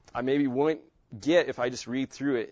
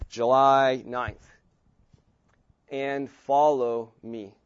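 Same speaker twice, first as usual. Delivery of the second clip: personalized rewrite. Shown as a demonstration. Teacher rereading the verse with his own name. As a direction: read it as if spoken to you. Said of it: "here's how I would do this".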